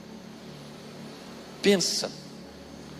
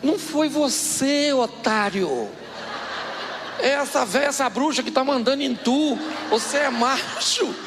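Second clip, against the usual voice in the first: mock indignant kid; 5 semitones higher than usual. Boy scolding uncle.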